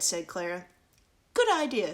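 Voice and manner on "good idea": queen. Acted. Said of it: "said the queen".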